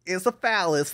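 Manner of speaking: plain-ish attempt at a British accent, drifting Irish; first take of a bad British accent. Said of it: "half Australian, half Irish right now".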